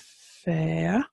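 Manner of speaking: "fair" as a long, drawn-out Irish word; modern Irish pronunciation. Shown as a demonstration. Teacher trying out the modern Irish word, unsure, careful pronunciation. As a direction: say "fair" slowly, stretching the vowel. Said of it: "am I pronouncing that correctly".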